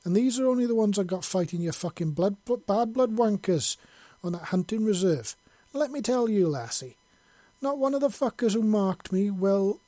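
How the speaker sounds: proud angry Scot listing his scars; indignant and proud. A narrator's reading. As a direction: boast and scold at once, full brogue. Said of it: "with a mixture of indignance and pride".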